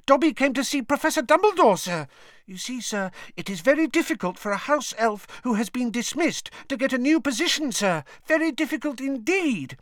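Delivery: squealing house elf. A narrator's reading. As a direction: squeal it out like an excited little elf. Dobby voiced as house elf.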